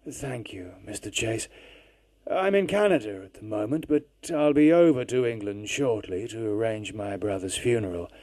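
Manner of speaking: distant phone voice. Acted. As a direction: sound like a faint long-distance call. Caller on phone.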